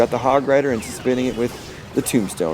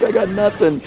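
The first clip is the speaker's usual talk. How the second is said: higher, mocking whine of the beaten player; mock defeated opponent; 9 semitones higher than usual. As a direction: voice the loser giving up. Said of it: "he's just like".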